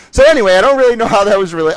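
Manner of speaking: laughing. Real, not acted. Cracking up mid-sentence.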